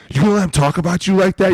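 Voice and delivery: high, fast teasing goad; mock instigating buddy; egging on. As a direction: needle him like a friend stirring trouble. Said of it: "you're like".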